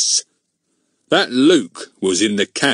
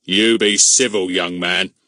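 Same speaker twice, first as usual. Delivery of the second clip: slow, louder scolding; angry; 4 dB louder, slower than usual. A narrator's reading. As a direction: warn the boy crossly. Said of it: "said Mister Goon angrily".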